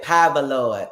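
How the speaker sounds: "Power" said as pah-buh; old saints' power. Retold or imitated. Host quoting old saints, "Power" as pah-buh. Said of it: "some old saints".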